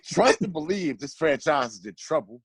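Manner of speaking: measured rhyming recital, landing each rhyme; spoken poem. Real, not acted. Friend reading a birthday roast poem about the Knicks, spoken poem. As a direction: read out a mocking verse with deliberate phrasing.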